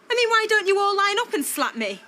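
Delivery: high-pitched, aggrieved outburst; indignant protest. Acted. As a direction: protest as if everyone is against you. Acted row, daughter feels attacked.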